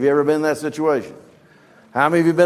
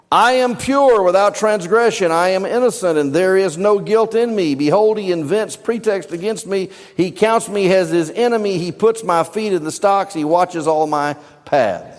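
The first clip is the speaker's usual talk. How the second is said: higher, insistent protest of innocence; Job protesting; 4 semitones higher than usual. Retold or imitated. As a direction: plead your innocence with force. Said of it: "Now he's quoting Job".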